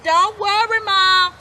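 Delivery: cheerful little pigs. A narrator's reading. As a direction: reassure mum brightly. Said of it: "they oined".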